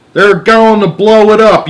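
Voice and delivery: high urgent yell from ground control. A narrator's reading. Ground control yells a warning to Shanks, panicked shout. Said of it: "yelled Sh-, ground control".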